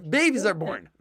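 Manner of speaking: mock outrage at the phrase; indignant objector. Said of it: "people go crazy, say".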